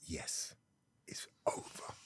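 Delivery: whispered, very soft confirmation; hushed finality. Retold or imitated. Girlfriend confirming the breakup to his face, hushed. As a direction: mouth it almost without voice. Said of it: "'Cause we're gonna be quiet".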